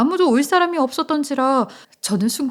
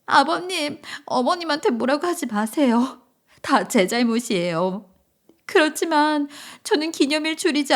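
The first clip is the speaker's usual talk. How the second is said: plaintive daughter-in-law pleading; acted tearful; 3 semitones higher than usual. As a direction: plead through mock tears with father-in-law. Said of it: "며느리는 갑자기 울음을 터뜨렸어요". (울먹이며 호소하는 며느리)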